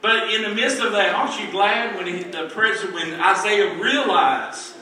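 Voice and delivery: emphatic pulpit delivery; fervent preaching. Acted. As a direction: preach it out with conviction. Preaches at full force.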